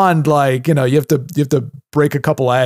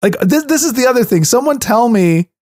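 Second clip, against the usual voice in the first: higher-pitched, worked-up challenge; fired up; 7 semitones higher than usual. Real, not acted. Co-host challenging listeners on self-driving cars, fired up. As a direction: demand an answer, really fired up. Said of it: "I'm sorry I'm so fired up on this".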